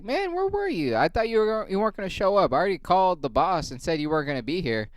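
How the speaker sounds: high-pitched mocking coworker voice. Mimicking the snitching coworker, high mocking voice. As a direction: squeak it out like the clueless coworker.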